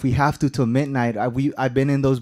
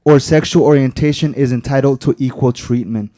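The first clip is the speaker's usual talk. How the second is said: forceful reading; 7 dB louder than usual. Real, not acted. Closing the emphasized quote.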